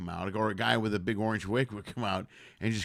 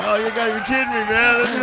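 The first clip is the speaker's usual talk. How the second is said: loud, high, fast incredulous cry; hammed-up stunned howl; mock disbelief; 12 semitones higher, 13 dB louder than usual. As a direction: yell it like the crowd in on the joke. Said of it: "And everybody laughs. Like".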